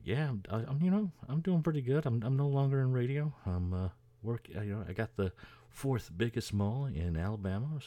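high, put-on voice of a proud small-town guy; Paul Giamatti's character bragging, imitated in a high voice; Kenny impression. Kenny boasting about his mall, high put-on voice. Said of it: "He's like".

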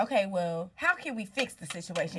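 understated, matter-of-fact delivery; emotionless problem-solving. Retold or imitated. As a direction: imitate someone all business, no emotion. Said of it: "emotionless, but, like".

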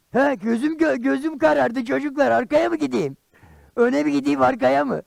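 high, anxious questioning; comic flustered pleading; theatrical helplessness. Acted. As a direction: beg the children for directions. Blinded, asks children for directions.

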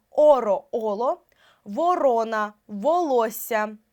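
slow dictation, every О full in ВОРОНА, ВОЛОССЯ; чітке О. Shown as a demonstration. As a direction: sound out ВО-РО-НА with clear О. Spelling examples sounded out with full О. (ВОРОНА, ВОЛОССЯ по складах, з чітким О)

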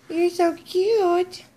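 high, slow, gushing coo. Real, not acted. Owner gushes over dog with toy, high baby talk. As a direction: squeal fondly at your pet, stretched out.

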